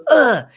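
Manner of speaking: high, loud mock grunt of pain; imitated pained grunt. Speaker acting out the kid getting hit, loud pained grunt. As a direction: grunt as if just smacked.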